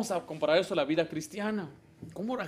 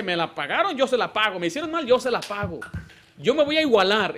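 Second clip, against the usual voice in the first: spiteful grudge; 4 semitones higher, 5 dB louder than usual. Retold or imitated. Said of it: "el inmaduro dice".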